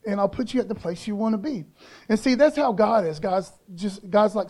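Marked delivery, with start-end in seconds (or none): 0.1-1.6 softer, slightly raised voice; retold reassurance. Dad to scared daughter at the park, reassuring. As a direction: gently talk a child down.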